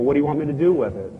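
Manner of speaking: fast, suspicious snap at them; quick sneering retort; mock nasty. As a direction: throw it back distrustfully. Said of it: "I'm still being nasty".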